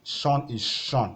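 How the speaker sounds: shun said slowly as one single beat; one syllable. Shown as a demonstration. Teacher showing the syllable to class, shun in one slow beat. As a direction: keep each shun whole, one vowel only. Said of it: "It's a syllable".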